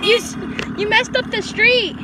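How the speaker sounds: exasperated scolding, slowed; annoyed. Real, not acted. Scolding a car.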